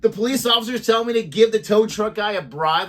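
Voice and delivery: real outrage at the very idea; indignant disbelief. Real, not acted. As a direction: fire off scandalized questions. Outraged at cop's suggested bribe.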